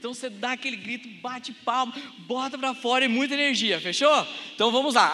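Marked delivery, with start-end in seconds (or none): none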